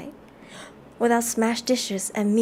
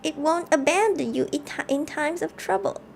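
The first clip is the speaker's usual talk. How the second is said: a mock witch-like granny; a hint of a witch; witchy grandma; 5 semitones higher than usual. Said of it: "I sound like a witch".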